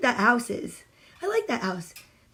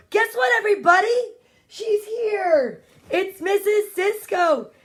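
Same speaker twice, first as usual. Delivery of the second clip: much higher, bursting with news; excited; 8 semitones higher than usual. Real, not acted. Teacher greeting the birthday guest, excited. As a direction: announce her arrival with a thrill.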